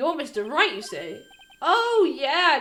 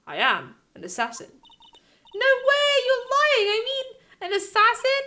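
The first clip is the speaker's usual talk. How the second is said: put-on alarmed young girl; 3 semitones higher than usual. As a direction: squeak it out in alarm. Maya reacts to the assassin.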